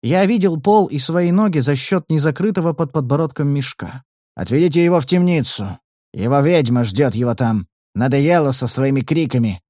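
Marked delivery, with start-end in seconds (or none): 4.4-9.6 slushy lisp. Acted. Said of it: "произнёс шепелявый голос".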